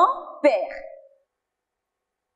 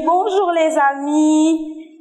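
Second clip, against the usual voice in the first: sing-song greeting; 4 semitones higher, much slower than usual. Acted. Greeting the puppet friends.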